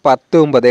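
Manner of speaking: পাত্তুম পদে with a doubled t; careful model পাত্তুম পদে; t sound. Shown as a demonstration. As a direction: say পাত্তুম পদে with t, not d, in the first word. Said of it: "এখানে ত উচ্চারণটাই হবে".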